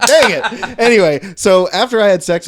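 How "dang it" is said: mock frustration. Real, not acted. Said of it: "I was gonna make a gay joke".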